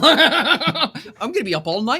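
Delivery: high and loud, breaking into laughter; helplessly amused, laughing it off; laughing disbelief. Real, not acted. GM cracking up at the players' French accent idea, laughing.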